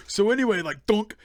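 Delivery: high, loud backwards Yoda talk. Acted. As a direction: stumble through Yoda-speak, slow at the end. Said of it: "trying to talk backwards".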